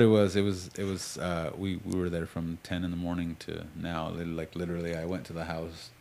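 talking while chewing gum; words around a wad of gum. Real, not acted. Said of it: "I'm sorry, I have gum".

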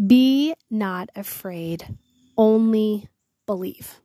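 slow, drawn-out solemn reading of the verse; solemn scripture reading. Acted. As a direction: lingers over each word as holy scripture. Reads Jesus's words solemnly.

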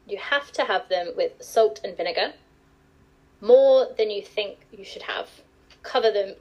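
careful, formal posh English; posh telephone voice. Shown as a demonstration. Guest shows the host her telephone voice, mildly posh and formal. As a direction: put on a professional phone manner, lightly. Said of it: "What, do my telephone voice?".

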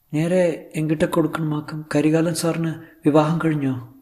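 high, slow, careful questioning; Sulekha. Acted. Actress asking whether her tutor is married, high and slow. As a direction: ask slowly in a high voice.

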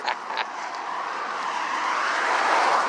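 soft, wheezy laugh; long laugh. Real, not acted. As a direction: laugh quietly and at length. Laughing at the other's outburst.

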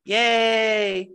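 bright, high cheer of yay; cheery yay. Pretend. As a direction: cheer it like a pun. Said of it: "You just said yay".

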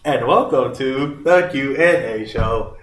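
high, loud mock robot greeting. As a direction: beep it out like a toy robot. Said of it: "You sound like a robot".

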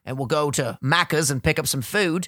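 put-on amateur Australian accent. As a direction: put on a casual Aussie accent. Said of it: "I try an Australian accent".

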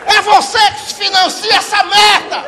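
high, loud barking tough-cop yell; Capitão Nascimento. Retold or imitated. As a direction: storm in like a furious squad captain. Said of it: "Baixou o Capitão Nascimento na hora".

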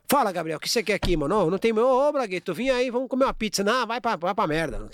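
grudging, dismissive greeting; rude welcome. Retold or imitated. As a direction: brush off the unwanted guest. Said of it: "Eu abro a porta e falo".

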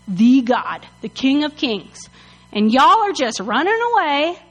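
mock-outraged scolding; offended. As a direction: hammer it out, affronted. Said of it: "David gets offended".

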